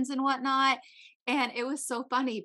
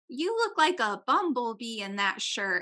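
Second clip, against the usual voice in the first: put-on blunt, needling, teasing tone. Retelling a friend's remark to her mom: imitating someone saying it loudly. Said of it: "she's just saying this so loud".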